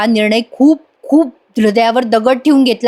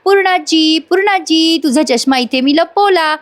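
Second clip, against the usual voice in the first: put-on little girl calling; 5 semitones higher than usual. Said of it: "ती छोटी मुलगी ओरडत असते".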